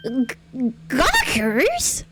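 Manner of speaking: high, incredulous question; startled rising query; taken aback. Acted. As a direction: echo it in disbelief, pitch shooting up. Acted indignant echo of an insult.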